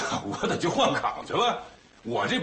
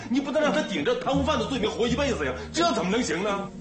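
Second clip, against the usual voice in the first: pleading with a laugh; 7 semitones higher than usual. Acted. Pleads for brother-in-law.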